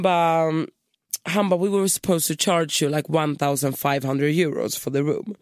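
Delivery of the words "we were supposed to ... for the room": put-on lightly Spanish-accented receptionist; a touch of Spanish receptionist, dragging the last line. Receptionist explaining the overcharge, light Spanish accent. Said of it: "spansk brytning".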